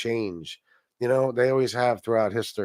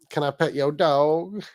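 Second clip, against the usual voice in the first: slow, lightly voiced Southern little girl; a drawn-out, playful hint of a Southern accent; 3 semitones higher than usual. Streamer repeating the little girl's line to himself, light Southern accent. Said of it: "like, this Southern accent".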